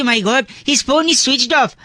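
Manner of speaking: very slow, proper English; drawn-out prissy English; slow prim English. Retold or imitated. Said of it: "पहले लोग कहते थे".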